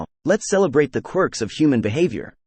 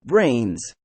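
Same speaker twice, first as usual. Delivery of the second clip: zombie; 2 semitones lower than usual. Acted. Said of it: "my impression of a zombie".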